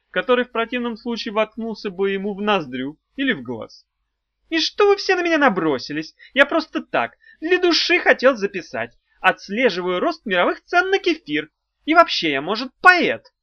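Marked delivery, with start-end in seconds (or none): 4.5-13.3 high, loud squeaky whine; squeaky complaint. A narrator's reading. Imp squeakily complains to everyone ganging up on him. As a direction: whine like a cornered little pest. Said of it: "пискляво пожаловался он".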